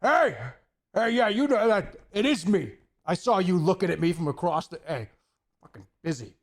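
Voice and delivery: hammed-up fan yelling across a club; mock shout.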